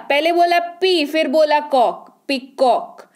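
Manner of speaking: "पी" and "कॉक" set apart, then joined as two beats in "पीकॉक"; two syllables. Shown as a demonstration. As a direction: mark the two parts "पी" and "कॉक" clearly. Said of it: "दो बार आया क्या?".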